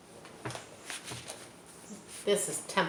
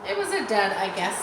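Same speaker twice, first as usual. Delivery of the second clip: mock goose; 4 dB louder than usual. Goose voiced in story.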